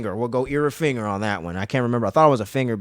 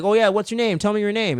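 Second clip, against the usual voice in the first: imitated captor's prodding; 9 semitones higher than usual. Acting captor asking the girl's name.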